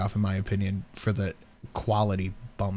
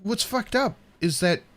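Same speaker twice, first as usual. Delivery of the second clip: incredulous; 8 semitones higher than usual. Real, not acted. Reacting to cringe video.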